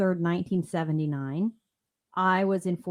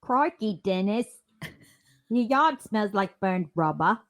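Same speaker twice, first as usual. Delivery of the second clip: put-on British accent; 4 semitones higher, 3 dB louder than usual. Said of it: "I can't even do a British accent today".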